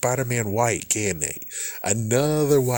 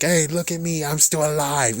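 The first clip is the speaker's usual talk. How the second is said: mock Peter Parker; 5 semitones higher than usual. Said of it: "Peter Parker decided to be like".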